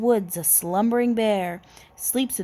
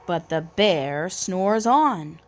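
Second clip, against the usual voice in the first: storybook refrain. A narrator's reading. Refrain read by narrator.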